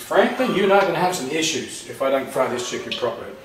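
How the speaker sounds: a hint of a Texas accent, quoting a friend; James Grimes's Texas accent. Friend quoting his cooking warning to Franklin, light Texas accent. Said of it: "in his finest Texas accent".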